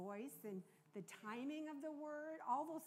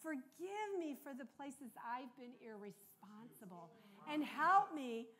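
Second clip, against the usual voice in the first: earnest prayer; 3 dB louder than usual. Retold or imitated. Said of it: "here's what I prayed".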